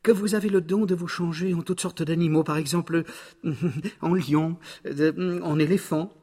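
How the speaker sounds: high cat voice with a little chuckle; high, wheedling storybook cat; flattering cat. Acted. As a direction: coax him along, high-pitched.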